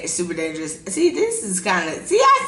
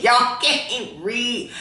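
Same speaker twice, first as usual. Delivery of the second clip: imitating mom; 2 semitones higher, much slower than usual. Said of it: "my mom be like".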